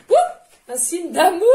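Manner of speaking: high, loud laughing slip; giggling after an oops. Real, not acted.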